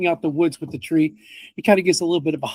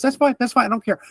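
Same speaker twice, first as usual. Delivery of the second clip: huffy; 6 semitones higher than usual. Acted. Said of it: "gets huffy. He turns around and goes".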